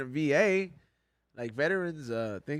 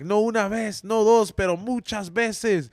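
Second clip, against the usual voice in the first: mock-shouting AA testimony, pitched higher; imitated yelled confession; 4 semitones higher, 5 dB louder, slower than usual. Man confessing at a Spanish AA meeting, imitated yelling. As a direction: declaim it loudly, stretching the last phrase. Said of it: "like, yell it out".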